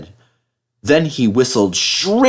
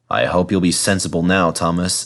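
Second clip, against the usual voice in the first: lower, stern driver voice; severe driver; 4 semitones lower than usual. Acted. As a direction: warn him like a stern driver. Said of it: "said his driver severely".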